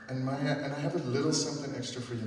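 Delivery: quick words through a teary laugh; rushing it out with a nervous laugh; laughing through tears. Real, not acted. Director laughing as she gives seniors gifts.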